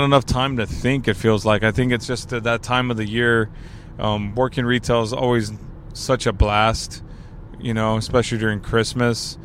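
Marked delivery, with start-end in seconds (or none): 4.0-9.4 sarcastic. Real, not acted. Retail worker on Christmas shifts, sarcastic. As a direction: say it dryly, meaning the opposite. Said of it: "you hear the sarcasm there".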